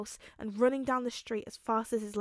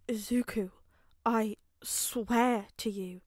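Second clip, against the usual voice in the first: whispered, slow, close to tears; barely voiced, choking back tears; tearful whisper; slower than usual. Father pleading with Izuku, whispered and tearful.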